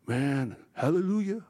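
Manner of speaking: lightly acted, halting confession to pastor; churchgoer pleading his case. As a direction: imitate a hesitant parishioner, trailing pauses. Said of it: "they come up and they tell you these crazy stories".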